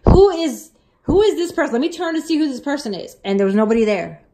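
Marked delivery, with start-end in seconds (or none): 0.1-3.2 puzzled and agitated; surprised. Retold or imitated. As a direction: retell it as bewildered, urgent self-talk. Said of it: "'cause I was surprised".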